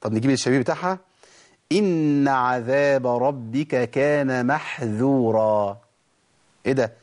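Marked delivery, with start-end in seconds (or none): 1.7-5.8 slow chanted recitation, محذورا with a light ذ; chanted verse; Quran recitation. Shown as a demonstration. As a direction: recite slowly with tajweed. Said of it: "هنا محذورة".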